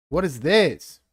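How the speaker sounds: high, loud, incredulous shout; baffled yell. Real, not acted. Gamer shouting at a broken model, loud bafflement. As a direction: demand an answer from the screen. Yelling at the software.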